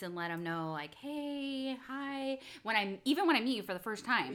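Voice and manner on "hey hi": high, drawn-out sweet greeting; over-the-top nice. Retold or imitated. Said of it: "be over the top, like, nice".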